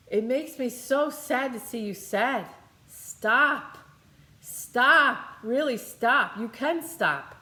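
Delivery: rising to loud insistent pleas of stop; a mother begging her daughter to stop being sad; mom's pleading stop. Retold or imitated. Mother begging daughter to quit sadness, loud pleading. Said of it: "she's echoing what my mom said".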